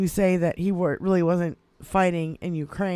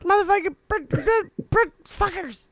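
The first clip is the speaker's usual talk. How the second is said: much higher, sputtering with mock rage; mock fuming rant; 12 semitones higher than usual. Host reenacts swearing at the videos in sputtering, high-pitched mock rage. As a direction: choke on your own fury, stammering. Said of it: "and I'm like".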